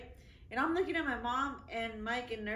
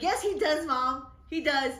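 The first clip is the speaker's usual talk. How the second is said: louder, half-laughing comeback to mom; telling mom off at the dinner table, mock loud; mock defiant retort; 2 semitones higher, 5 dB louder than usual. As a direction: fire it back at mom, laughing.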